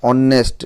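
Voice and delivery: ଅନେଷ୍ଟ said slowly, starting on the vowel "o"; vowel-first honest. Shown as a demonstration. Teacher shows students how honest is pronounced, ଅନେଷ୍ଟ beginning on "o". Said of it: "ଉଚ୍ଚାରଣ ହେବ କ'ଣ".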